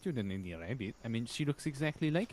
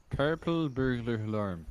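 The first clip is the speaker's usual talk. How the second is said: "purple burglar alarm" in a firmer Scottish accent; better Scottish attempt; 2 semitones lower, 5 dB louder than usual. Shown as a demonstration. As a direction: nail the Scottish "alarm" this time. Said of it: "That's better".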